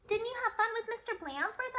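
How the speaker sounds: high loud knowing question; sweet innocent teacher. A narrator's reading. Teacher teasing class about principal, high sweet. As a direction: ask with false innocence. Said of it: "asked Miss Nelson".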